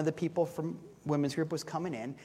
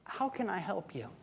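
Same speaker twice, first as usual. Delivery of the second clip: gentle offer; 7 dB quieter than usual. Shown as a demonstration. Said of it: "showing up and saying".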